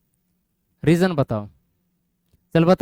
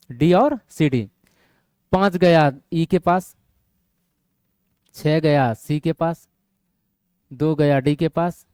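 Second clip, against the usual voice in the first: slow dictation; 3 semitones lower, slower than usual. Shown as a demonstration. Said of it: "ध्यान से, केवल यहाँ देखो".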